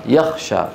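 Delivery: يخشى with kh replacing the gh of يغشى; Kha-for-Ghain error. Shown as a demonstration. Teacher showing students the mistake, غ turned to kh. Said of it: "إبدالها خاء".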